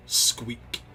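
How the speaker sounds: low, deadpan human squeak; understated deep bass word. Acted. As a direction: say the animal word in a low man's voice. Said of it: "distinctly human and deep bass voice".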